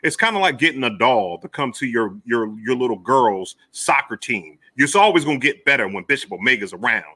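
hyped-up wrestling promo. Acted. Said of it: "This nigga cutting a promo on me".

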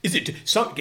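a lightly voiced earnest presenter; imitating radio host. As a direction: mimic the solemn radio intro. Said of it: "He was saying, like".

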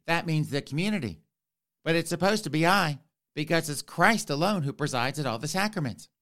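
lightly voiced fussy bishop explaining; mild mock fussy bishop. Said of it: "that's how the bishop sounds".

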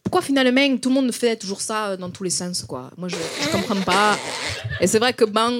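concentrated go at a Marseille twang; attempted Marseille accent. Shown as a demonstration. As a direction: try Marseille with ringing "-eng" endings. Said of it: "je vais me concentrer".

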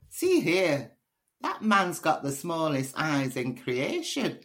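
lightly attempted Scottish accent, drawn out. Shown as a demonstration. Poet demonstrates her poem's opening line, hint of Scottish accent. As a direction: have a go at a slow Scottish accent. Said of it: "I used to do it in a Scottish accent".

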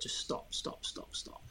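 hushed whisper of an inner voice. Retold or imitated. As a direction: whisper it like a nagging thought. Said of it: "all my head was saying was".

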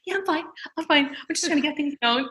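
high, soft mock-cheerful insistence; playing it cool while forty-one weeks pregnant; brave front. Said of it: "I was like".

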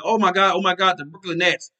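imitating an overhyped fan; mock fan excitement. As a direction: gush like a starstruck fan, tongue in cheek. Mocking hyped Nets fans.

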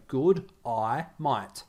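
broad Aussie "Good eye, mate", sounded out; demonstrated Australian accent. Shown as a demonstration. Teaching Americans to sound like an Australian, demonstrated Aussie accent. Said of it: "say this to yourself right now to sound like an Australian".

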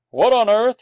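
loud, high astonished exclamation; taken aback, voice jumping up loudly; startled. A narrator's reading. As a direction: burst out in disbelief. Man startled by the dog.

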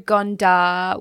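Gondar in an Australian accent; "Gondar" slowly, with Australian vowels. Real, not acted. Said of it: "sorry, that's my Australian accent".

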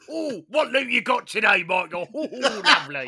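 high, loud mum voice; cheerful mum praising the loot; man doing a woman's voice. Retold or imitated. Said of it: "That, that was the impression of my mum".

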